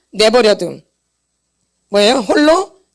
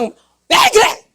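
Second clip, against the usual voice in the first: angry yelling; 8 semitones higher than usual. Acted. Speaker demonstrating abusive parent scolding a child, angry yelling. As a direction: act out yelling angrily at a child. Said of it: "막 이러면서 소리 지르고 막 화내는 거".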